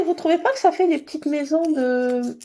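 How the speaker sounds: usual speaking voice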